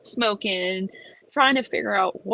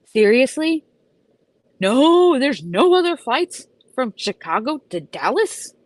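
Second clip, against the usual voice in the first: much higher, louder incredulous outburst; mock outrage; 7 semitones higher, 6 dB louder than usual. Retelling to the agent at O'Hare, mock outraged disbelief. Retold outrage at last flight.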